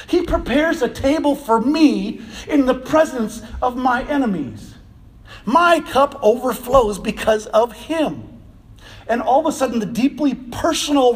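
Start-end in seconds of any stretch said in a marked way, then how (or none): 0.1-4.7 personal reading with weight on ME; stress on ME. Shown as a demonstration. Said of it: "just the slight inflection on that". 5.4-8.4 slow personal reading, MY stressed. Shown as a demonstration. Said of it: "just the slight inflection on that".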